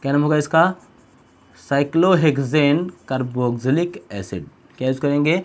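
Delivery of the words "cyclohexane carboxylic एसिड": very slow, drawn-out term, a little lower; slow dictation. Shown as a demonstration. Teacher giving students the compound's name, slow dictation. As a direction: stretch out each part of the name.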